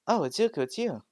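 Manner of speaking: high, loud "oh" of surprise; light up, caught off guard; surprised greeting. Acted. Girl surprised to find her boyfriend at the door, high and bright.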